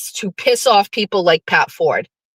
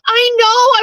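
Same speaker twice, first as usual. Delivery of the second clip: much higher and louder squeal; 14 semitones higher, 4 dB louder than usual. Retold or imitated. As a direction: squeal with glee. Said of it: "And I was like".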